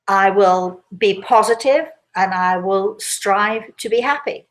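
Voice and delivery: "I will be positive" said slowly and deliberately; slow example mantra. Shown as a demonstration. Inventing an example mantra for listeners, slow and deliberate. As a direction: recite an example mantra, steady and measured. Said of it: "I'm trying to think of one".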